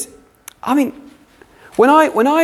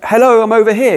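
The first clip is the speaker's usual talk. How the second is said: exasperated call; 7 semitones higher, 5 dB louder than usual. Retold or imitated. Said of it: "you're like".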